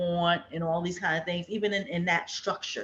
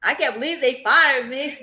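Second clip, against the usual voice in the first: 1 mock disbelief; 5 semitones higher, 6 dB louder than usual. Voicing fired worker.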